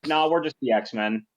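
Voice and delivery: put-on dry, dismissive teen sarcasm; sarcastic teenager voice. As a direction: say it like an eye-rolling teenager. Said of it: "the most sarcastic teenager voice Jace has ever used".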